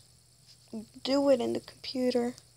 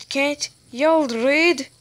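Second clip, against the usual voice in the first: slow, loud exasperated repeat; louder, slower repeat; 7 dB louder, slower than usual. Real, not acted. Kid repeating louder at players who won't read. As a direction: hammer it home louder.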